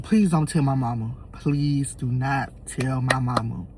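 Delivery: soft, low pleading; quiet retold plea. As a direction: plead under your voice, slowing on the repeat. Repeating his plea to the family.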